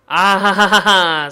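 loud, slow villain laugh; evil laugh. Acted. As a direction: cackle like a movie villain.

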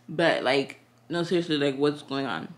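talking with a slight lisp. Real, not acted. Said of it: "This freaking lisp".

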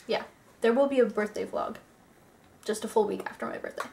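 slightly out of breath; breathless, talking through short breaths. Real, not acted. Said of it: "why am I out of breath?".

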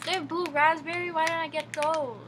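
high, loud eager complaint; excited. Real, not acted. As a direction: sound thrilled and envious. Wanted the other flavour.

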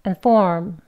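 "and form" with barely voiced first vowel; light "and", clear "form"; weak form. Shown as a demonstration. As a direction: swallow "and" into a short schwa. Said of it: "각각 이렇게 발음합니다".

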